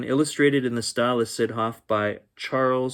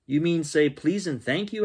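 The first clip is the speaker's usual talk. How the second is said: higher, curious dinosaur voice; dinosaur's voice; 7 semitones higher, 3 dB louder than usual. Acted. Dinosaur asking Danny about manners, curious and higher. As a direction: play the dinosaur asking, wide-eyed.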